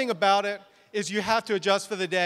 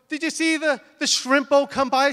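high, loud, eager questioning; excited bride; 6 semitones higher, 4 dB louder than usual. Retold or imitated. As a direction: imitate a bride bubbling over with excitement. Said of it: "so excited".

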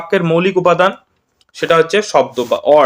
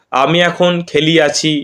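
slow formal-Bengali example; much slower than usual. Shown as a demonstration. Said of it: "মানে, এই যে এরকমভাবে".

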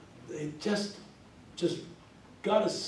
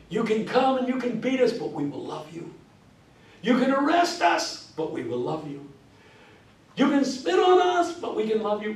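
King's cadence; 5 semitones higher than usual. Retold or imitated. Lecturer recalling King's march speech in Philadelphia. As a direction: call and respond like King. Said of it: "hear Martin Luther King saying".

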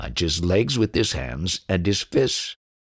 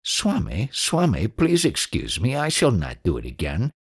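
mildly plaintive disciple begging his master; plaintive pleading; 2 semitones higher than usual. Acted. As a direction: beg forgiveness like a scolded disciple. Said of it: "he said in a plaintive voice".

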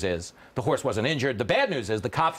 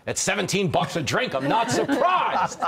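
laughing punchline; 5 semitones higher than usual. Retold or imitated. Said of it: "And the horse goes".

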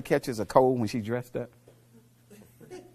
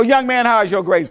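louder, higher stern question; stern coach; 8 semitones higher, 9 dB louder than usual. Retold or imitated. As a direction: bark it like a coach. Coach quizzing player.

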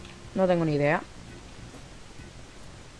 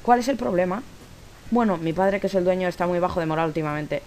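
a hint of acting both sides; lightly voiced characters; 3 semitones higher than usual. Reads game dialogue aloud.

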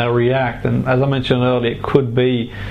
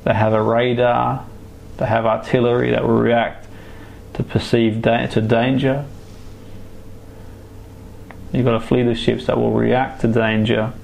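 right in your ear. Acted. Hypnotherapist guiding a relaxation trance.

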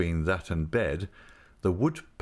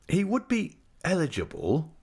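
"would" leaned on hard and raised; stress on would; 10 semitones higher than usual. A narrator's reading. Traddles correcting Mrs Micawber, stressing "would". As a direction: hit "would" with strong emphasis. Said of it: "with a strong emphasis on that word".

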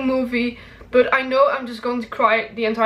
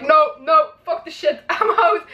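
panicked outburst; 5 semitones higher than usual. Retold or imitated. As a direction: blurt out a half-laughing no way. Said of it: "and I was like".

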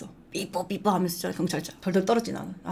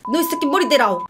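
louder and higher, a hammed-up swear; mock cursing shout; 6 semitones higher, 6 dB louder than usual. Joking about cursing at the teens again, a hammed-up loud shout. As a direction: yell the curse for a laugh.

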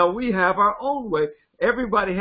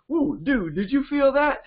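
excited dude talk; 6 semitones higher than usual. Retold or imitated. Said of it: "that's the way he talks to his brother".

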